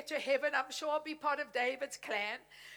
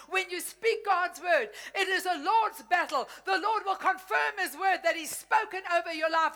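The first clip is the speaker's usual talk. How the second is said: full-force preaching; 4 dB louder than usual. Acted. Pastor declaring victory over the family's enemies, full-force preaching. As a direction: build it up like a revival call.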